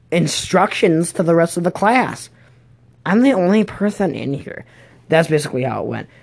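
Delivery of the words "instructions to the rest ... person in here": lightly voiced cranky school aide, higher; hammed-up telling-off, a touch raised; mock scolding para. Para scolding a student in class, mock scolding. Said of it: "she yelled at me today".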